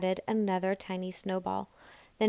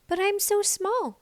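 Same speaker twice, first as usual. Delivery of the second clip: put-on lightly higher small girl voice; a small child protesting; little Nell; 12 semitones higher than usual. A narrator's reading. Little Nell tells the animals she can't.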